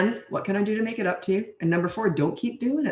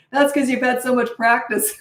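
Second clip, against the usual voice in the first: mildly raised, higher mock call; retold yell; 4 semitones higher than usual. Teenage son teasing parent from the kitchen, mild retold yell. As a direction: imitate a teenager calling from another room. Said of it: "teenager yelled out from the kitchen".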